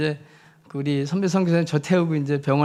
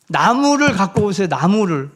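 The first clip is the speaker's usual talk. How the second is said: urgent call; 2 semitones higher, 5 dB louder than usual. Retold or imitated. Calling for a wooden splint.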